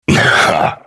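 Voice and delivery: brief, breathy huff of laughter; short laugh. Acted. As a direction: let out one short low laugh. Wry laugh amid self-reflection.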